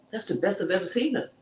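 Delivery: high, emphatic gushing; wowed and raving; gushing admiration. Real, not acted. Gushing over the girl's looks.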